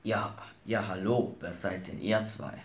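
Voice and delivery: deep Santa Claus voice. Acted. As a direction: rumble it like Father Christmas. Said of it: "fragte mit tiefer Stimme".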